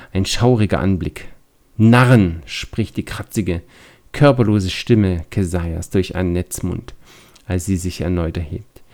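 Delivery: measured storybook reading voice; story narration. A narrator's reading. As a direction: read it like a spooky tale. Reads scenario story text.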